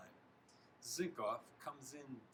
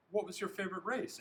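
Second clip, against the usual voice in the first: high, quick, loud question; parent asking; 8 semitones higher, 6 dB louder, faster than usual. A narrator's reading. Parents quiz their son at dinner, eager. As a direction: chirp the question with eager interest.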